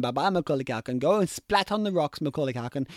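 low, soft mocking send-off; mock farewell. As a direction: taunt him as he drops.

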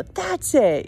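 high, held-back retold outburst; mock scream. Daughter screaming at her laughing mom, high mock yell. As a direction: imitate snapping at someone, without full volume. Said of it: "another minute before screaming".

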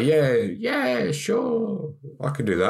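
high, breezy yes-man voice; overly keen job applicant; eager candidate. Retold or imitated. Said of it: "They're gonna say".

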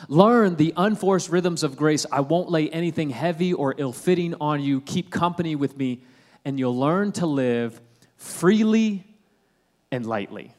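slow, deliberate verse reading; scripture reading. Acted. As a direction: let each phrase land, slowly. Rereads the verse slowly.

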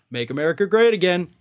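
fast, sing-song tag on great; jingle-like Trump slogan. Retold or imitated. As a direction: rattle it off like a jingle. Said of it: "it's a little jingle he has to do".

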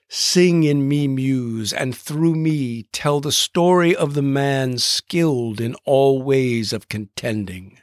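slow, looser verse reading. Shown as a demonstration. Host reads Fitzgerald's opening lines aloud in slow, lightly rhythmic verse. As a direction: let the line breathe, lightly rhythmic. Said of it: "Robert Fitzgerald says".

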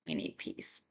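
barely voiced, choked-up near whisper; tears catching the breath. Real, not acted. Praying aloud for peace, whispered through tears. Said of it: "Let me regroup a second".

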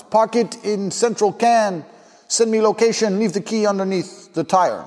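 high, measured put-on voice; old party guest. Old guy telling a guest where to leave his car, high put-on voice. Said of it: "some old guy comes up".

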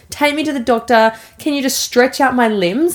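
imitated kid's desperate plea; retold hysterical pleading. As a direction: beg urgently like an upset child, lightly acted.

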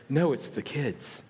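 mock loving answer. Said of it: "expected me to say something loving and kind".

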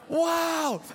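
blurting out amazement at the puppy; amazed shout. Retold or imitated. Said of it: "I'm like".

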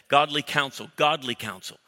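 "godly" leaned on, falling; emphatic "godly" each time; stress on godly. Shown as a demonstration. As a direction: preach "godly counsel" with weight on "godly". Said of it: "Say it out loud".

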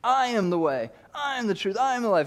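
rising, swelling declaration; Jesus declaring. Acted. Preacher as Jesus telling Thomas who he is. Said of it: "he goes".

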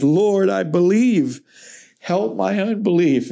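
mock-tearful crying out to the Lord, without sobs; imitated tearful cry. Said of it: "cried out and said with tears".

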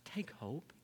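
hushed, whispered encouragement; soft whispered "take hope"; whispered plea. Acted. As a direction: breathe it out as a whisper to the congregation. Sermon drops to intimate plea.

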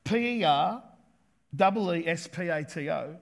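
spelled letter by letter; letter-by-letter spelling. Shown as a demonstration. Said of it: "the Greek word for distracted".

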